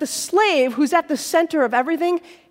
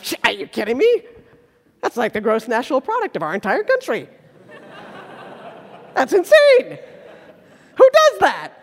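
laughing disbelief; 2 semitones lower than usual. Retold or imitated. Listeners of Jesus scoffing at the debt, laughing disbelief. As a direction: scoff at the absurd sum through a laugh. Crowd reacting to huge debt.

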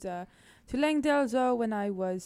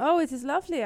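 put-on French accent=189; 6 semitones higher, 7 dB louder, faster than usual. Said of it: "I'm just doing a French accent".

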